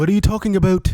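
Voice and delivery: mock Canadian accent. To his co-host, a playful Canadian accent. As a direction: toss off a Canadian 'What are you talking about?'. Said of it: "now that was more Canadian".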